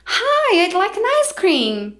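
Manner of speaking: high, slow, overconfident tourist English; confident tourist English. Retold or imitated. Tourist ordering ice cream abroad, high, slow, self-assured English. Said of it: "Eu com a minha plenitude de inglês".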